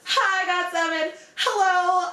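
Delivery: high, sugary fangirl hello; pretend sweet greeting. Imagining greeting a boy band while soaked, high sweet chirp. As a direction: put on a chirpy polite meet-and-greet voice. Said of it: "it's gonna be like a flip".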